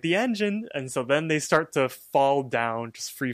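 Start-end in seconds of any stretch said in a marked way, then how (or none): 0.0-0.7 high-pitched cartoon exclamation; mock alarm, pitched way up; Skabatha and Trash. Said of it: "Skabatha and Trash were like".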